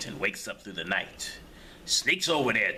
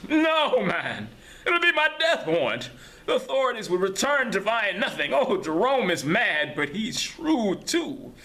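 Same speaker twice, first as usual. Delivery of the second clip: panic, then drop it to a warning; a frightened prisoner warning him; high fearful voice; 10 semitones higher, 4 dB louder than usual. Acted. Prisoner fearing for his life.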